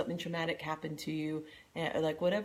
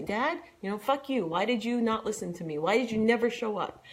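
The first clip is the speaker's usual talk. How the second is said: louder, rising anger at a stand-in dad; angry outburst; 4 semitones higher, 5 dB louder than usual. Pretend. Venting at a partner standing in for dad, angry. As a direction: let the old anger at dad out.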